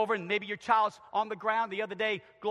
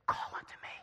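gentle call; 5 dB quieter, faster than usual. Retold or imitated. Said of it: "And Jesus says".

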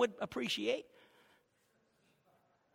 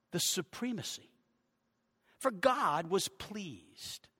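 slow scripture reading. Real, not acted. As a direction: let each phrase stand alone. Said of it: "I'll read it slowly".

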